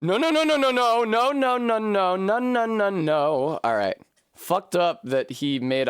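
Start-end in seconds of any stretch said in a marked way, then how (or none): 0.0-3.6 panicked nos. Real, not acted. Slipping off the wall.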